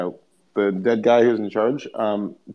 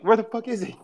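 mock paranoid yell; 11 semitones higher than usual. Imitating paranoid friend.

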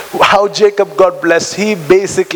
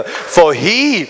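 slow declaiming; slower than usual. Real, not acted. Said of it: "Let's read this together".

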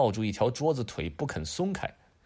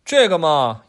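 high, drawn-out bargaining hum; a child stalling for a deal; sly kid; 6 semitones higher, 10 dB louder, slower than usual. Acted. Adam haggling with dad through the door, sly kid voice. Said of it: "亚当说".

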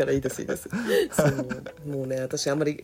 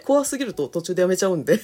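laughing; 3 semitones higher, 5 dB louder than usual. Real, not acted. Laughing confession.

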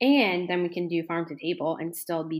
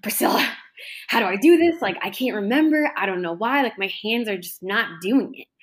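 mock panic; 3 semitones higher, 4 dB louder than usual. Student calling Priscilla in the pantry room, mock panic. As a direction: re-enact a flustered cry for help. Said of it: "'cause I panicked".

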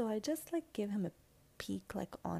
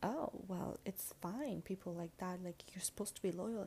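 soft, partly whispered inner thought; hushed recalled inner voice; old self-talk, hushed; 6 dB quieter than usual. Retold or imitated. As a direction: murmur the old excuse to yourself. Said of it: "I used to think".

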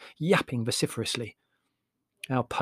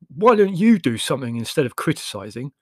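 snapped; 2 semitones higher, 6 dB louder than usual. A narrator's reading. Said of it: "snapped Leslie".

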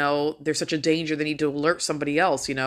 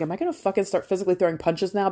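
quick, pitched-up acted anger; angry; 4 semitones higher, faster than usual. Shopper feeling the heat at blockers, angry. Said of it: "that anger".

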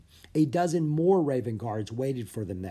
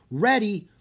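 eager; 8 semitones higher, 6 dB louder than usual. Acted. Bo ready to travel.

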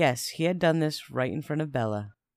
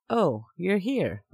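surprised; 4 semitones higher, much slower than usual. Acted. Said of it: "I said, surprised".

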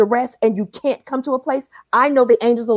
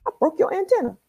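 attacker's voice; 9 semitones higher, faster than usual. Retold or imitated. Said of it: "he's like".

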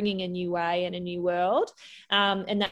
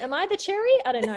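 playful wonder; 12 semitones higher, 3 dB louder, faster than usual. Real, not acted. Joking question.

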